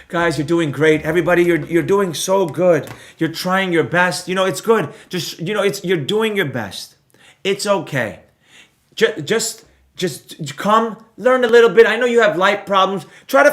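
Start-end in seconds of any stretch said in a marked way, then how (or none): 0.1-11.9 mock coddling. Mentor sarcastically coddling lazy viewers, mock soothing. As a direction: pretend to comfort them, sarcastically. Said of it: "be like this".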